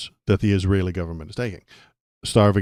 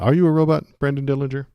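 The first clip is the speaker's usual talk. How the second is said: mock suspicion; 6 semitones higher, 3 dB louder, faster than usual. Real, not acted. Teasing a chatter.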